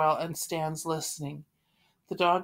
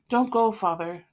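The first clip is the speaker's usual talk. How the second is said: frightened pleading; 4 semitones higher, 6 dB louder than usual. Acted. Margot begs father.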